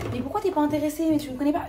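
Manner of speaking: plus aigu et plus fort, outré pour rire; indignation moqueuse. Retold or imitated. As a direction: imite les gens vexés d'un refus. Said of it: "les gens après ils sont là en train de dire". (un dragueur vexé imité, aigu et fort)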